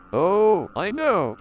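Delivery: high, loud burst of excitement; exclaiming. A narrator's reading. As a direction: blurt it out eagerly. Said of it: "exclaimed Alice".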